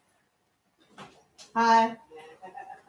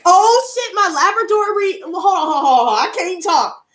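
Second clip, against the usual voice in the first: breathless excited gush, higher; can't get the words out for joy; overexcited; 6 semitones higher than usual. Real, not acted. Opening her new ring, tripping over words from excitement. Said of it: "I got so excited".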